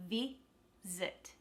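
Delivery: VISIT split as vi, zuht; careful VISIT with the second i reduced to uh; schwa second vowel. Shown as a demonstration. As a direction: break VISIT apart, weak second syllable. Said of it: "The same goes for visit".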